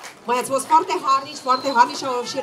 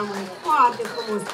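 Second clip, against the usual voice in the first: ordinary talk, nothing marked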